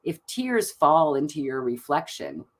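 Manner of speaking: calm, even reading of the oracle card; soothing oracle-deck narration. Acted. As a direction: read it out like a gentle ritual guide. Reads oracle card text aloud.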